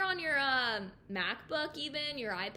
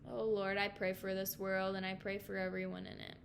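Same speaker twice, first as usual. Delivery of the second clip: low-key, level praying voice; real, subdued plea to the Lord; closing prayer; 3 semitones lower, 4 dB quieter than usual. Real, not acted. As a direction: pray it simply, sinking in pitch.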